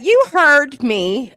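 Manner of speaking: mock swagger. Mock-proud lyric boast.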